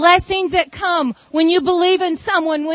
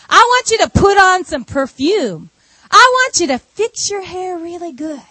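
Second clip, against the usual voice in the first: emphatic instructions; 3 semitones higher, 4 dB louder than usual. Retold or imitated. Naomi instructing Ruth, retold.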